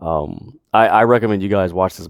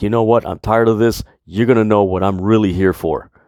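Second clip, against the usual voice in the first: put-on intense, serious promo announcer voice. Retelling a backstage promo by Adam Cole: imitating an intense serious Adam Cole. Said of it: "he just got really to the point".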